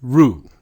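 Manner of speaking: "Ru" punched loud as one syllable; "Ru" with a long oo; blended syllable. Shown as a demonstration. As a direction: sound out "Ru" firmly. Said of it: "What do you have?".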